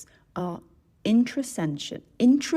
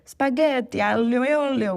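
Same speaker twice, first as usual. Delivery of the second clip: loud, high, hammed-up Italian accent; over-the-top Italian accent, sung out high and loud; full-on Italian accent; 6 semitones higher, 5 dB louder than usual. Shown as a demonstration. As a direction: give it your best Italian impersonation. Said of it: "with a full-on accent".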